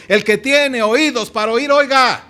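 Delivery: rising to a loud final oiga. Acted. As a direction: lift the voice like a call to the crowd. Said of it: "alza el Señor la voz diciendo". (el Señor proclama en voz alta a la gente)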